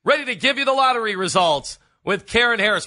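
high, loud game-show host patter; mock lottery announcer. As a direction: belt it out like a hammed-up TV lottery host.

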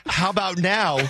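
a dry retold "How about now?" with a hint of a laugh; snarky jab. Host retelling his jab at the producer, mild snark. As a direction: needle her again, half-amused. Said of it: "Just a jerk thing to say".

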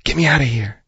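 a trapped snake coaxing, mild and sly; viper voice. Shown as a demonstration. Trapped viper pleads with a passerby, lightly voiced sly snake. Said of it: "That's my viper voice".

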